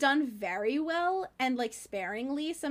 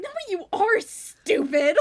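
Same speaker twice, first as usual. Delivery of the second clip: higher, louder mock-angry shout; venomous shout; 8 semitones higher, 8 dB louder than usual. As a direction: spit the insult with venom. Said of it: "it was such venom".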